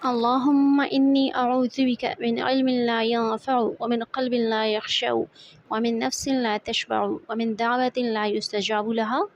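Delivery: measured, level-toned Arabic supplication; prayer recitation. Acted. Teacher reciting an Arabic dua before the lesson, prayer recitation. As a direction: recite a dua evenly, holding the long vowels.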